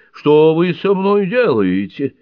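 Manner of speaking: high, loud, slow alarmed cry; startled exclamation. A narrator's reading. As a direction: cry out, caught off guard. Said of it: "только и успела воскликнуть".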